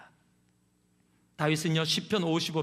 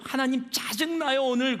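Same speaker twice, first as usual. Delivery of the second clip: frank complaint to God; 6 semitones higher, 3 dB louder than usual. Acted. Enacted honest prayer.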